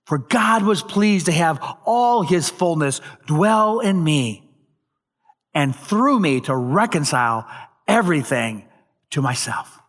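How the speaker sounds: emphatic, measured declaration with drawn-out key words; proclaiming. Acted. Jesus teaching the crowd who he is, proclaiming. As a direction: proclaim it with authority, easing down at the end. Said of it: "he's in essence proclaiming".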